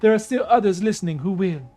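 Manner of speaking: regal storyteller goddess; lightly voiced proud princess. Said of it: "I gotta do a Nubian female goddess voice".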